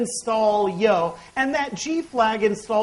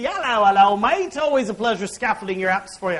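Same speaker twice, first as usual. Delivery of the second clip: put-on terrible British accent. Presenter voicing the scaffolding tool's greeting to the audience, in a mock British accent. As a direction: voice the app's cheery greeting in a deliberately poor British accent. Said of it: "I've got a very terrible British accent".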